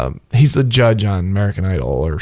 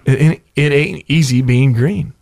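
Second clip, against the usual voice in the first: Kermit impression; 2 semitones higher, slower than usual. Shown as a demonstration. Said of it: "do Kermit the Frog".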